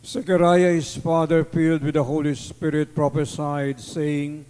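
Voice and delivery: measured solemn scripture reading; Gospel proclamation. Acted.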